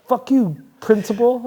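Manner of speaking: put-on high, loud teenage defiance; loud mock rebel; mock defiant yell. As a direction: yell it like a rebellious kid at the principal. Retold defiance at school.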